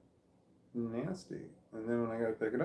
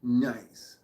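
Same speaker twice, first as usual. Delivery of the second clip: louder, pleased exclamation; pleased nice; 5 dB louder than usual. Real, not acted. Vlogger seeing the count hit five, louder and pleased. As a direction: say it out loud, happy with the count.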